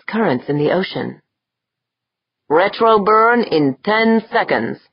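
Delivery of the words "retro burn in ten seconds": called out. A narrator's reading. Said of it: "Dorn called out".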